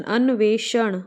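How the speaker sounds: अन्वेषण drawn out slowly, syllable by syllable; teacher slowing अन्वेषण so students can write it; slow spelling demo. Shown as a demonstration. दिखाने के लिए अन्वेषण धीरे बोलना. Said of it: "श षटकोण वाला आएगा".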